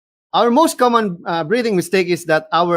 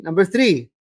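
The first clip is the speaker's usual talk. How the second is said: normal talking voice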